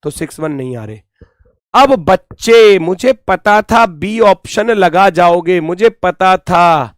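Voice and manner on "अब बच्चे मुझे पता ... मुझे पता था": louder, slow I-knew-it scolding; mock told-you-so. Teacher playfully scolds students for picking option B. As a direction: wag a finger at the class.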